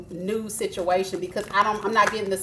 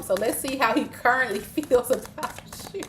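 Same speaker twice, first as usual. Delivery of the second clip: laughing. Real, not acted. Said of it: "'cause you said you do like him".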